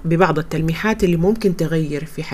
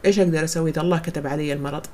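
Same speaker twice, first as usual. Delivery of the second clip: quick helpless complaint; 4 dB quieter, faster than usual. Retold or imitated. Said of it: "ممكن واحدة تقول".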